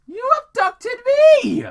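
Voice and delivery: high, loud indignant correction; indignant shout. A narrator's reading. Sonic shouting at Tom who abducted him, indignant. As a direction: yell it back in outrage. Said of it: "Sonic corrected".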